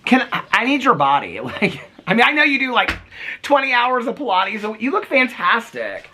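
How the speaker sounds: high-pitched, chatty admiration; gushing compliment. Real, not acted. Compliments the neighbour's figure.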